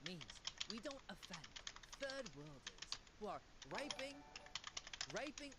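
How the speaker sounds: hammed-up British accent, self-important; mock British larping. Streamer mocks Britons jailing people over memes, pompous British accent. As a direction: put on a pompous British voice, mildly mocking. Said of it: "they larp as if".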